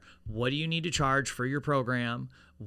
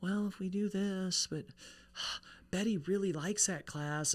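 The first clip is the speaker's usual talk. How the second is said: mocking; 6 semitones higher, 4 dB quieter than usual.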